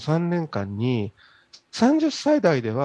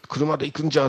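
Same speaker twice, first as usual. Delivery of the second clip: quick, light rakugo grandpa line; rakugo old man; faster than usual. Retold or imitated. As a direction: toss off a stubborn grandpa's line. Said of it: "落語に使うおじいさんのセリフ回し". (落語のおじいさん口調)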